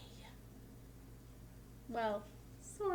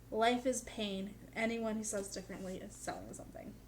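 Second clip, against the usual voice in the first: imitating Carey Elwes. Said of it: "Carrie Elwes' inflection in this quote".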